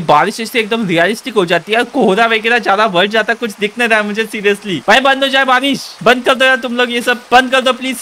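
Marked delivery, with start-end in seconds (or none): 4.9-8.0 raised pitch, begging the rain to stop; exasperated pleading. Real, not acted. Gamer begging the game to stop the rain, pleading.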